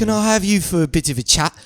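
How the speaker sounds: quick, mock-British request; put-on British banter; British accent. Shown as a demonstration. The speaker tries out British on the host, a quick British accent. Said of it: "switch up to the British".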